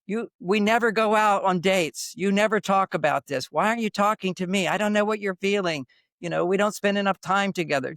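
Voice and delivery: a hint of a complaining partner; mock complaining wife. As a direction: rattle off her complaints in mild mock whine. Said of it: "women will go ... to".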